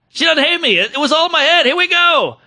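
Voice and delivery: high, pumped-up self-talk; relieved excitement. Retold or imitated. Comic psyching himself up for the stage, excited relief. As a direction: hype yourself up with relief.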